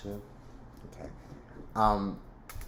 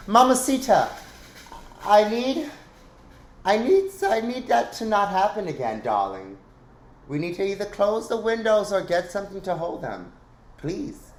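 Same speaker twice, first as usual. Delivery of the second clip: high, loud put-on voice calling to someone; 9 semitones higher, 3 dB louder than usual. Calling to someone in the house about the banging shutters, high and loud. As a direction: sing out like a fussy lady of the house.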